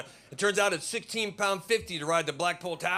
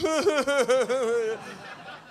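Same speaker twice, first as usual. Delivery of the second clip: mock sobbing; 6 semitones higher than usual. Mimics offended American breaking down.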